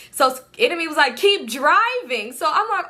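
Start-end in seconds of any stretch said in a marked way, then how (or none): 1.1-2.3 high, drawn-out order; urgent command. Retold or imitated. Friend telling the driver to flee, urgent command. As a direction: stretch it out as an urgent push.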